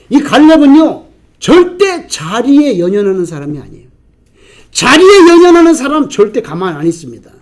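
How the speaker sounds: loud, high, driving preacher's declaration; forceful preaching. Acted. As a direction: hammer the point home from the pulpit. Preacher rising to full force.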